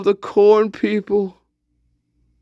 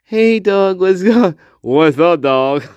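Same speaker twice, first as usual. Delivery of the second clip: put-on valley girl. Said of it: "She's like".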